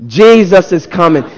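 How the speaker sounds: firm, emphatic declaration; like you mean it. Shown as a demonstration. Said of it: "Say it like you mean it".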